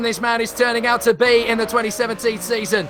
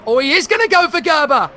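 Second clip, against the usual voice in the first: excited shout; 5 semitones higher, 4 dB louder than usual. Real, not acted. Overtake attempt called live.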